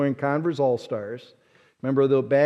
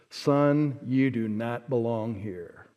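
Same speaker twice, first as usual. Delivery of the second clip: low, slow and softer dismissal; stern old man; 5 semitones lower, 6 dB quieter, slower than usual. Retold or imitated. Old club men dismissing the boy, low and slow. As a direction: coldly tell the boy he doesn't belong. Old men's cold verdict.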